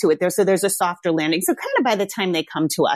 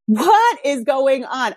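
very slow, higher-pitched disbelief; exaggerated bewilderment; 5 semitones higher, 3 dB louder, much slower than usual. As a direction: draw it out in hammed-up bafflement. Mock bewilderment in retold panic.

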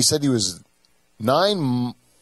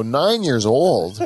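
incredulous; much slower than usual. Retold or imitated. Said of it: "I go".

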